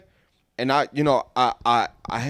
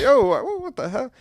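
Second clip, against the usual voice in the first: imitating the shocked kid; 9 semitones higher, slower than usual. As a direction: play the stunned kid, pitched way up. Kid's reaction to being popped.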